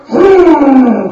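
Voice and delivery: king brooding over idols; pondering king. Acted. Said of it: "the king goes".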